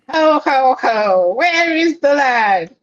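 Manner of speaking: slow, high chirpy insect voice; bug voice. Acted. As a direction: drag it out like a giant bug. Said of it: "bug voice, bug voice".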